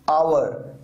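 आवर with no h sound at the start; silent H. Shown as a demonstration. Teacher showing silent letters, आवर with the H dropped. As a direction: begin आवर straight on the vowel. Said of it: "यहां पर एच silent है".

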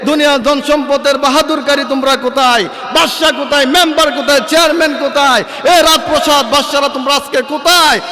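repeated shouting. Retold or imitated. Allah shouting again and again for the kings and chairmen. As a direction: call them out one by one. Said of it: "আল্লাহ বারবার চিৎকার দিয়ে বলবে".

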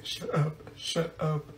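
very soft, under the breath; barely audible, urgent hush; hushed shushing. Acted. Pupil quietly hushing friends in class, under the breath. Furtive hushing amid giggles.

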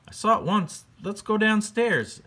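very high, sing-song ghost voice; friendly ghost. Acted. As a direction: float it up high like a goofy ghost. Ghost leads George downstairs.

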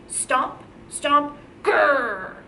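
chanted stomps, then a growl; dinosaur stomp and growl. Shown as a demonstration. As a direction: stomp it out, end in a playful grrr. Teacher models stomps and dinosaur growl.

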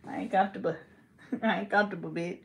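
lightly voiced old granny; a hint of granny, words run together. Mocking someone as a granny, lightly put on. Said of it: "like you somebody old ass granny".

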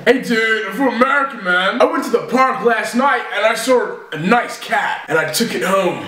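casual mock American storytelling; American accent. Son taking his turn against mum, put-on American. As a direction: tell it lightly in an American accent. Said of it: "American, you go first".

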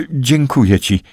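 thanks said dryly, with no warmth. A narrator's reading. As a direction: thank him flatly, without warmth. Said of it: "Jej głos brzmiał sucho".

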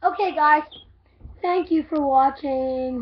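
loud slow sign-off; loud outro. Real, not acted. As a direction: call out the goodbye.

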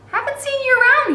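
put-on a big guard greeting a servant girl; lightly voiced guard. A narrator's reading.

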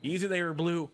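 steady a creature with a rough movie impression; Chris Pratt impression. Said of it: "what did Chris Pratt sound like in Jurassic Park".

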